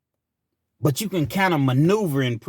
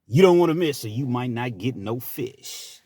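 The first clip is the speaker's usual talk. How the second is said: radio DJ voice; 5 semitones lower than usual. Acted. Late night DJ plugging a fish fry, radio voice. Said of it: "put my radio voice on".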